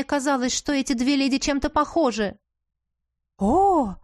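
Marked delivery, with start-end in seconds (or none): 3.4-3.9 admiring gasp. A narrator's reading. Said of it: "выдохнула Шарлотта".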